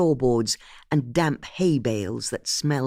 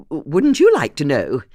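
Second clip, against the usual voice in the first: bluffing laugh, louder; stalling the suspect with a cheeky laughing dodge; nervous laugh; 7 dB louder than usual. A narrator's reading. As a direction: laugh it off to cover a blank mind.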